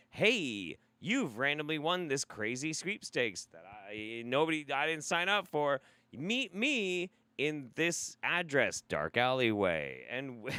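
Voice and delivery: hammed-up scam email, slow in places; spam mail voice. Host mocking a spam sweepstakes email, hammed-up scammer voice. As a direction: read it as a dodgy prize come-on. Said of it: "they're like".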